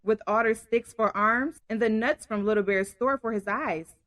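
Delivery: story narration. A narrator's reading. Reads story aloud.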